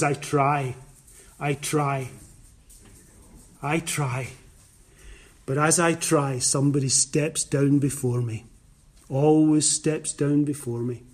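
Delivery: lightly voiced, low and soft pitiful plea; pitiful sick man. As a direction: let the tired despair show, quietly. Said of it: "Such a pitiful statement".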